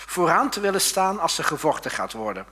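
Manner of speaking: loud scolding big brother; a scolding rebuke; angry older brother. Acted. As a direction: tell him off loudly. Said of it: "viel hij woedend uit".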